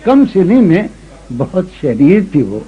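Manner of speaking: ghazal recitation. Acted. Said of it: "آخری سے سنا رہا ہوں".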